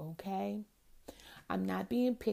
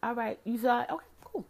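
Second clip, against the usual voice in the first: breezy okay; 3 semitones higher than usual. Retold or imitated. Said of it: "That's when I'll text".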